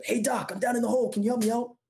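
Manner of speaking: high, mock call up from a hole; retold shout. Man in a hole calling up to a passerby, high mock shout. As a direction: call up for help, half-acted. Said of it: "the guy in the hole shouts up".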